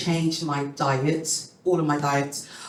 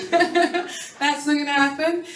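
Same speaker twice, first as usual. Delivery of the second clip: higher, slow, drawn out refusal; slow repeated refusal; 10 semitones higher, slower than usual. Retold or imitated. Repeating her refusal to the doctor, slow and higher. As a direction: drag out the no.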